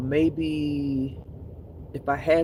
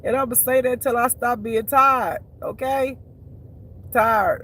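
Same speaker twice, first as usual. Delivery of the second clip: emphatic; 7 semitones higher, 4 dB louder than usual. Real, not acted. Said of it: "I'm tired".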